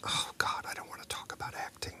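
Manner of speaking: whispered inner thought; hushed, imitated aside to himself; private dismayed aside. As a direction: say it under your breath, as a reluctant thought. Retells his private inward groan.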